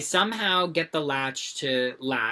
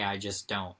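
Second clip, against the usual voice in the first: whisper; 7 semitones lower, 6 dB quieter than usual. Real, not acted. Confiding aside in story.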